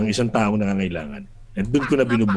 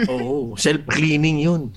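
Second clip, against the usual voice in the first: laughing; 3 semitones higher, slower than usual. Real, not acted. Joking about sanitary napkin.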